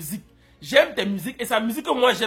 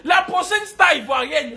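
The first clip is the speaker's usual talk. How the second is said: hype announcement; 5 semitones higher, 4 dB louder than usual. Real, not acted. Announcing next star, hype.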